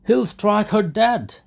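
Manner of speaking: high, loud cry; alarmed shout. A narrator's reading. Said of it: "they shouted all round".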